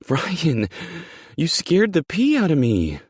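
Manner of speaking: very high, loud scolding shriek; high-pitched yell of fright; startled shriek. Acted. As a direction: shriek at the one who scared you. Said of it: "she shrieks".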